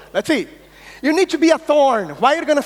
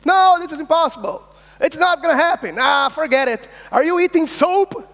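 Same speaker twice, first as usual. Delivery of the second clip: scoffing naysayer; 5 semitones higher than usual. Retold or imitated. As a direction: throw the no back at them with scorn. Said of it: "the quotes we hear every day".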